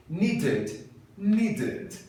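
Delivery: British needed with a crisp clear D; British accent. Shown as a demonstration. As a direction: say needed the careful British way, D sounded. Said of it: "fala o D e o T bem bonitinho".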